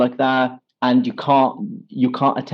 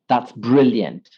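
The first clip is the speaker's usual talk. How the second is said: slow model phrase; slower than usual. Shown as a demonstration. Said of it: "so we can say".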